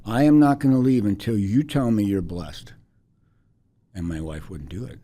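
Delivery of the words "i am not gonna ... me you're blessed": louder, higher Liberian woman laying down terms; firm Liberian accent. Retold or imitated. Woman telling the wife she won't leave, loud Liberian accent. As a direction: state it as an ultimatum in a Liberian accent. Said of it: "in her Liberian accent".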